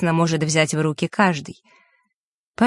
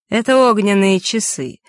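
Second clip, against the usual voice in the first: raised, obliging explanation; courteous explaining; 4 semitones higher, 4 dB louder than usual. A narrator's reading. Mark explaining the candle to Vasilisa, courteous. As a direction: explain it politely, as a helpful host. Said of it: "любезно разъяснил Марк".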